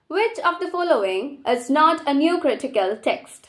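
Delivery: very slow, deliberate exam reading; slow question read. Acted. Tutor reading the exam question slowly to students. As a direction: lay each word down for the class.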